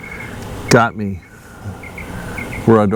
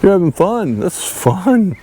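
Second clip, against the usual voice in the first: lightly voiced divine visitor, pitched higher; Jesus; 6 semitones higher than usual. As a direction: step in with a higher, playful mock-heavenly quote. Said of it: "Jesus done came in and said".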